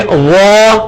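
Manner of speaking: "وا" said with a rounded mouth, heavy and thick; heavy Arabic zha. Shown as a demonstration. Teacher models the heavy letter for students, mouth rounded. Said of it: "تھوڑا سا منہ گول کریں گے".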